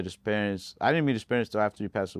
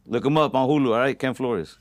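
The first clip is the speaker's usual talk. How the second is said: talking with grills in mouth; wearing teeth grill; 3 semitones higher, 6 dB louder than usual. Real, not acted. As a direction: speak around metal grills on teeth. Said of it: "I'm wearing my grills right now".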